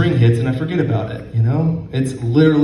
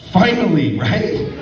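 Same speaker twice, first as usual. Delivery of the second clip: excited; 8 semitones higher than usual. Pretend. Comic joy at a side effect.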